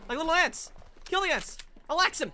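high, loud playful bloodlust; gleeful menace. Pretend. Player sees enemies running like ants, gleeful menace. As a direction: gloat over tiny prey. Mock villain hunting enemies.

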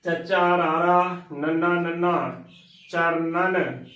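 letters spelt out, then ਚਰਨਨ with two n's; ਚਰਨਨ as "char-nan"; correct pronunciation. Shown as a demonstration. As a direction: sound both n's in ਚਰਨਨ. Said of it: "ਇਸ ਦਾ ਸਹੀ ਉਚਾਰਨ ਹੈ".

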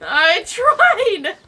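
high laughing protest. Real, not acted.

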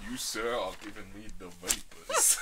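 low, soft mock-Southern indignation; put-on genteel Southern accent; bad Southern accent. Shown as a demonstration. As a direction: play an affronted Southerner, accent hammed up. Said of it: "Southern accent".

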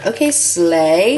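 slow, loud okay, slay; drawn-out slay. Real, not acted. Excited about primer.

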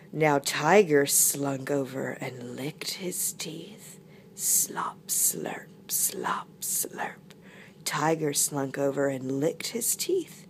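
slink through it, whispering the slurps; hushed sinister narration. Acted. Narrator as tiger eyes his feast, hushed menace.

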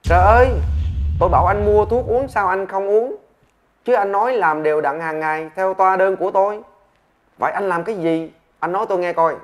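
loud, high exasperated doctor scolding; doctor shouting. Acted. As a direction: yell at the patient in disbelief. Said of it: "Bác sĩ quát lên". (bác sĩ quát lớn, cao giọng)

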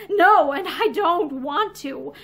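slow, laughing shrug of a line. Acted. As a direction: laugh it off, unbothered. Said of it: "Violet laughed and shrugged".

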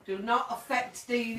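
slow, firm warning; slow stern command. Real, not acted. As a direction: lay down the law slowly. Medium ordering the spirit.

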